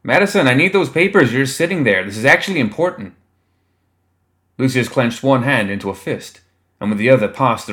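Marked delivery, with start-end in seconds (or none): 0.0-3.1 higher, louder demand that eases off; impatient call for the papers. A narrator's reading. Staffer calling across the room.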